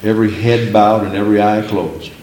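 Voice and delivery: measured altar-call cadence, lightly voiced; a hint of a revival preacher; preacher's call. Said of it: "preachers say".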